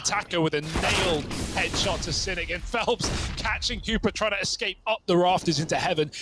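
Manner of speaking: excited esports play-by-play; live play-by-play. Acted. Caster calling the live round for viewers, play-by-play. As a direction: call the round as it happens.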